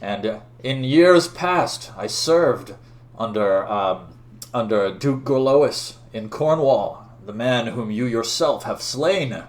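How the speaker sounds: slow, grand, declamatory challenge; stately knight, loud on his own name; accusing knight. Acted. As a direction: proclaim a grievance with drawn-out weight. Voices challenger Sir Elaine.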